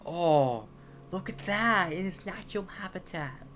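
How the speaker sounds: Irwins. Acted. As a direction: marvel like an Australian nature-show host. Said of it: "speaks like the fucking Irwins".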